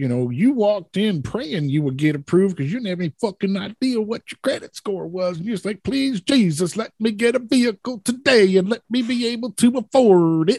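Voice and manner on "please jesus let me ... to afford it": pitched-up, pleading southern preacher-style voice. Recalling praying to get approved for a vehicle, in a southern preacher voice. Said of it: "Why did you go Southern Preacher?".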